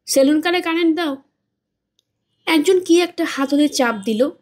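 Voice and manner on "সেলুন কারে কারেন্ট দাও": higher, calling out an order; raised voice. Acted. Bodybuilder orders his men to switch on the power, calling out. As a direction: call the order across the car. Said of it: "body builder উঁচু গলায় বলল".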